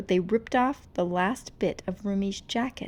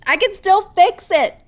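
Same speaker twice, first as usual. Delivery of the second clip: very loud, high roaring cry; demon roar; 11 semitones higher, 15 dB louder than usual. Acted. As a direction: voice turning monstrous. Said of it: "rumbled into a demon's roar".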